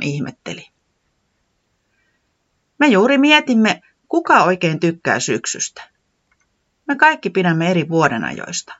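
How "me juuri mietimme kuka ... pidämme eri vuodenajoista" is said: louder eager explanation; Tiputi explaining. Acted. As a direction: fill in the newcomer. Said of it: "Tiputi selitti".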